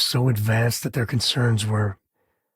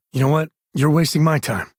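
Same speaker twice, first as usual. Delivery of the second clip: irritated, louder and higher; fed-up snap; annoyed; 4 semitones higher, 4 dB louder than usual. Acted. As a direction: brush them off sharply. Companion annoyed at someone.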